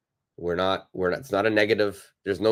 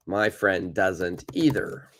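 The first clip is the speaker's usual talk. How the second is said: slow model sentence; slower than usual. Shown as a demonstration. Teacher repeats model sentence slowly.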